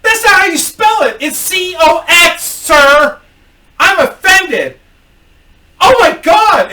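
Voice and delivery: high, loud mock shriek; exaggerated high-pitched offended shouting; outraged customer. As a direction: yell it, scandalized and hammed-up. Offended customer yells the spelling.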